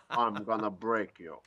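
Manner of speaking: lightly played Russian threat; Russian accent. Driver joking about threatening his rival, mild Russian accent. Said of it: "him doing a Russian accent".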